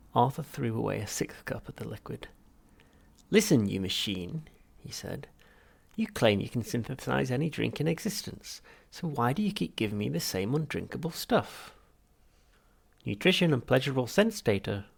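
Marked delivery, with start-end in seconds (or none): 3.3-11.7 raised, irritated complaint; exasperated scolding. Acted. Arthur complaining to the drink machine, exasperated. 13.1-14.9 high, loud bubbly machine voice; burbling machine. Acted. Machine answering Arthur, cheerful burbling. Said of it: "burbled the machine".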